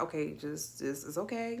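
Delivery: soft, reassuring retold comfort; retold consoling. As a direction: gently soothe a crying partner, softly. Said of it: "she was crying and I was like".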